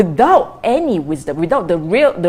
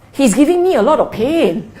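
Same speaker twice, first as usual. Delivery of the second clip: half-laughing mock grumble, higher; wrong way, mock complaint; 5 semitones higher than usual. Shown as a demonstration. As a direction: play the self-pitying complainer with a laugh. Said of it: "What is talking wrongly?".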